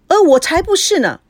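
high-pitched startled denial; greatly startled. A narrator's reading. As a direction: deny it quickly, caught off guard. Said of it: "孙娜大吃了一惊".

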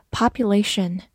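"Population" said the American way, mouth wider open; American pronunciation. Shown as a demonstration. Teacher models for learners an American, wide-mouthed "Population". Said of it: "美式发音， 口型比较大".

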